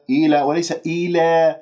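إلى first with open "aa", then tilted toward "ee"; straight versus tilted alif. Shown as a demonstration. Teacher contrasts right and wrong: open, then tilted ending of إلى. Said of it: "لا تميلها".

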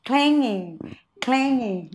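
"clanging" with the ng held back, breath briefly stopped; slightly held breath. Shown as a demonstration. Teacher models the word for students, slightly held breath. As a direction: hold the breath a little on the ng in "clanging". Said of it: "lúc này chúng ta hơi nín thở một tí".

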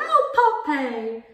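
mock-dreamy, high swoop that drops; dozy cooing. Mum showing how she tried the name, dozy. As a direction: coo the name in a silly, dozy way. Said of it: "said it in such a dozy way".

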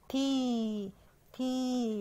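long, held تي, said twice; kasra sound. Shown as a demonstration. Teacher sounding out crocodile's first letter, drawn-out تي. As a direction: stretch تي as "tee", pausing between. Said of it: "يبقى حرف التاء تحتيه كسرة".

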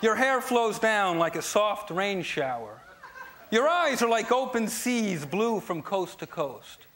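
slow, tender recital turning blunt; mock poem reading. Shown as a demonstration. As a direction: read sweetly, then snap the punchline. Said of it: "my dad wrote for my mom".

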